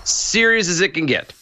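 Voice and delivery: mock-solemn warning before a sad story. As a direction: ham up the gravity of the moment. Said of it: "No laughing, no snickering".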